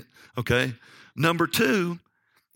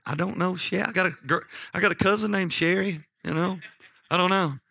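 higher-pitched, flustered denial; retold bewildered protest; 6 semitones higher than usual. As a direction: plead ignorance, acting out the accused husband. Husband protests in retold quarrel.

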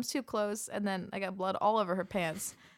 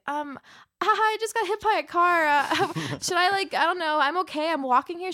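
higher and louder, giggling through the words; laughing nervously; 10 semitones higher, 9 dB louder than usual. Retold or imitated. Recalls telling student health, higher, louder and laughing. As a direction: laughs while telling the nurse she was hit. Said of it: "and I was like".

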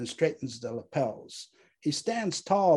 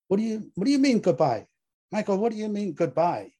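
higher, louder, stumbling demand; wife panicking at husband's goodbye; alarmed wife; 8 semitones higher, 4 dB louder, faster than usual. A narrator's reading. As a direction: demand an answer, urgently.

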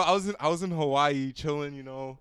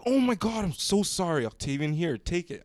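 apologetic; 5 semitones higher than usual. Retold or imitated. Quoting friend's apologetic sister.

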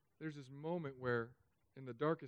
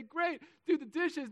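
tag; 12 semitones higher, 5 dB louder than usual. Acted. Parent answering kids, acted.

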